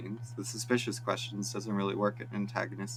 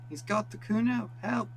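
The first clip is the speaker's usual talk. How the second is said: joins the shouting; 12 semitones higher than usual. Acted. Boy joining the shouting at the windows, panicked yell. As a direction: holler it with fake panic. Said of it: "The boy joins in".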